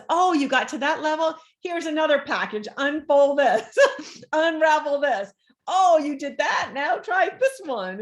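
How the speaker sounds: mock life voice. Voicing life handing new challenges.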